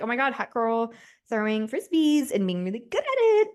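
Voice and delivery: half-joking fangirl gush; gushing mock hype. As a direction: play up your own hype, drawing out the end. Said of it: "I'm gonna be like".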